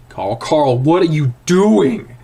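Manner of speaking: alarmed questioning. Acted. Shaken narrator confronts his friend.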